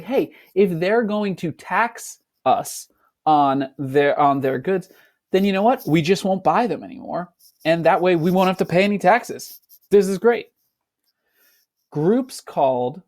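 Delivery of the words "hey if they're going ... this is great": higher, eager plotting voice; scheming colonists. Retold or imitated. Colonists cooking up the boycott plan to students, higher and eager. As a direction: sell the clever boycott plan. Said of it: "They're like".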